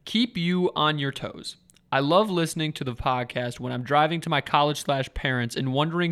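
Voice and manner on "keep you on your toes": slow, deliberate, each word placed; slow careful reread. Shown as a demonstration. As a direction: reread it slowly to get it right. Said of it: "I couldn't work on my speaking skills".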